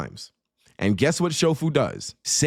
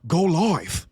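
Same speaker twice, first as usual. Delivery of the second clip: mock West Coast drawl on "go live"; West Coast accent. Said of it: "that's how the nigga said the shit".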